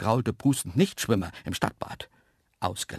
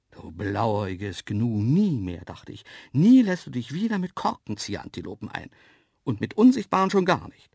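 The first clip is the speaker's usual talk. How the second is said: scolding himself; 4 dB louder than usual. Acted. Narrator swears off invisible antelopes, scolding himself. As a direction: tell yourself off, building in emphasis.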